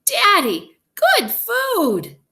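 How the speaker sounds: put-on very high, loud child voice; excited little girl. A narrator's reading. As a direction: squeal it proudly to dad. Child excitedly shows the candy.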